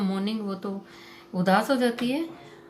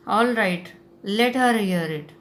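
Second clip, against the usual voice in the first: shouting; 5 dB louder, much slower than usual. Retold or imitated. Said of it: "shout करके चिल्ला के बोलता है".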